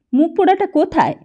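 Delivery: high, loud gruff demand; an old man barking for the boy. A narrator's reading. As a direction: grandfather demanding to know where the boy is. Grandfather demands Dipu.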